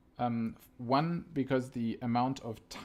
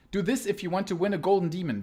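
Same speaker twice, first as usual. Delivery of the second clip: tabloid tv host; 4 semitones higher, 5 dB louder, faster than usual. Pretend. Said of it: "Did you like that?".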